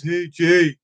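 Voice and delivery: lightly voiced stoner guy; a hint of a laid-back stoner; stoner buddy. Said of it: "one of those stoner guys that just talks like that".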